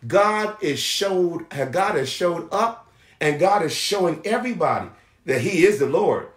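emphatic preacher's delivery with stretched key words; preaching. Acted. Preacher assuring the people God shows mercy, emphatic preaching. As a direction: preach it firmly, punching key phrases.

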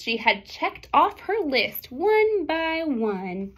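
lively picture-book read-aloud; reading to children. A narrator's reading. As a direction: read the rhyming story to the class.

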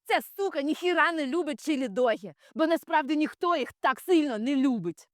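high-pitched, exasperated rant; heated, high-voiced venting; exasperated outburst. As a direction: grab them by the collar and set them straight. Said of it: "Мені хотілося схватити цю бідолаху за комір".

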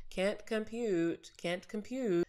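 slow, flat robotic 'Can't compute'; lightly voiced robot. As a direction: sound like a malfunctioning computer. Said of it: "my brain kind of went".

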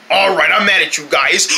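joking pretend anger; laughing mock anger. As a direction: fake mad, laughing through. Fake anger joke.

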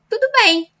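falling statement tune on "Tudo bem."; answer intonation. Shown as a demonstration. Teacher showing how to answer, falling tune. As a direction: say "Tudo bem." flat and final, falling at the end. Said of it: "Just change the intonation".

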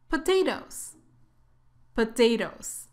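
"Potatoes" with a tapped second t, like d; careful "Potatoes", ending like "dose"; American soft T. Shown as a demonstration. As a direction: model American "Potatoes", last t softened. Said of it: "estamos practicando inglés americano".

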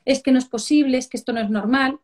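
mock exasperated parental telling-off; fed-up mother. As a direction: scold like a mum at the end of her patience. Mother scolds in acted scene.

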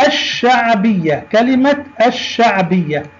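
الشعبية with silent lam and doubled sh; careful demo, hold the sh in الشعبية; sun lam. Shown as a demonstration. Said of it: "لام مبدوءة باللام الشمسية". (نطق «الشعبية» بلام صامتة وشين مشددة)

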